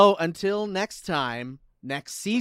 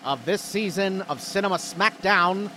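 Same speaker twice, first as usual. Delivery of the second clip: announcer voice; 2 semitones higher than usual. Acted. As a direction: build suspense like a host. Announcing season winner.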